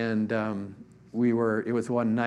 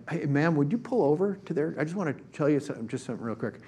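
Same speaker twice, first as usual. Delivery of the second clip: higher, eager call to a driver; bold call-out; 4 semitones higher, faster than usual. Retold or imitated. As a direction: retell a friend boldly flagging down a car. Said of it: "Steve is so bold".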